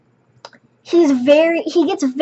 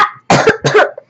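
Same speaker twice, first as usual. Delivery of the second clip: acted cough; 6 semitones higher than usual. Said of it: "Literally what he did".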